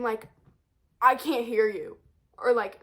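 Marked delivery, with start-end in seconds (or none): 1.0-2.0 mild mock yell. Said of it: "I literally scream".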